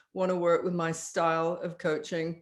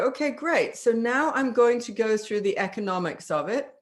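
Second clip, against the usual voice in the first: upbeat transition; 3 semitones higher than usual. Shown as a demonstration. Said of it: "And you go".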